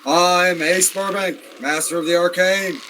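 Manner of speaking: grand self-introduction. Acted. Freed wizard introducing himself to his rescuer, mildly grand. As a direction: draw out the title with a touch of pomp.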